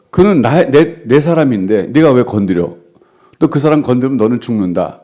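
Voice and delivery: a protective threat to the king; God's threat. Acted. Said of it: "위협하시는 거예요". (자기 사람을 지키는 하나님의 위협하는 목소리)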